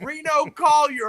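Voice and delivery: stage announcer. Retold or imitated. Josh brings the comic out to the crowd, announcer style. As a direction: announce him like a stadium MC.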